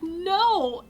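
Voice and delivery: high, loud drawn-out protest; indignant cry. Retold or imitated. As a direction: wail it in mock outrage. Re-enacts protest to teasing friend.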